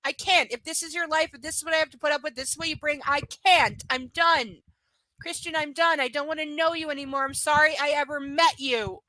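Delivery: pleading, breaking off, then resigned; upset Anastasia. Retold or imitated. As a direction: push her away, hurt and done. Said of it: "And Anastasia's like".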